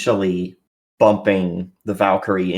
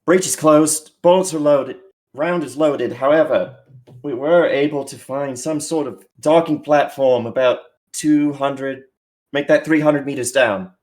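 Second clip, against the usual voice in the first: pilot on the radio; 4 semitones higher than usual. Acted. Pilot reporting over comms.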